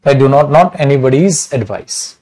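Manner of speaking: very slow, deliberate, "anybody's" with a clear s; slow correct version. Shown as a demonstration. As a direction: spell out the right sentence word by word. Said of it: "अब इसको ऐसे तो नहीं लिखोगे ना".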